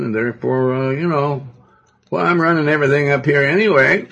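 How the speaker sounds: mock-boastful Lucifer, pitch climbing toward the end; lightly acted self-important braggart; puffed-up Lucifer. Preacher voicing Lucifer bragging that he doesn't need God, puffed up. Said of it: "Lucifer got puffed up".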